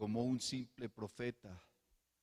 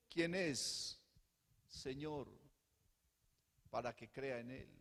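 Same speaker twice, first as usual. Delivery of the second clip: soft question; 6 dB quieter than usual. Retold or imitated. Man's question told softly first.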